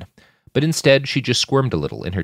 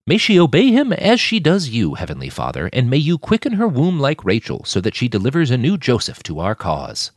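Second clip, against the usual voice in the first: higher, louder preacher's blessing; fervent prayer; 4 semitones higher, 4 dB louder than usual. Acted. Saul blessing Sasha at the table, fervent prayer. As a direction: pray over her with fervour.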